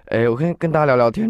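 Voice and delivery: real crack on the high note. Real, not acted. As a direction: voice cracks on 天, quick and rising. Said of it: "你为什么破音了".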